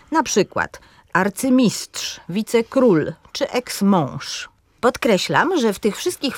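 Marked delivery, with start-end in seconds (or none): 1.1-4.5 slow demo, "arcymistrz", "wicekról" and "eksmąż" each stressed on the final syllable; slow teaching demo of final-syllable stress; stress on last syllable. Shown as a demonstration. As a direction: say "arcymistrz" slowly with the weight on "mistrz", and likewise "król" in "wicekról" and "mąż" in "eksmąż". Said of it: "przykłady akcentu na ostatniej sylabie".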